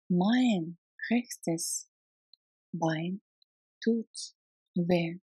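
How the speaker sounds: "Mein rechtes" then "Bein", "tut", "weh" with pauses between them; slow it down for learners to copy; word by word. Shown as a demonstration.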